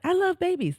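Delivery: put-on high-pitched gushing baby lover; mock gushing. Mimicking people who have children for babies, mock gushing. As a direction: squeal it lightly, imitating a baby fan.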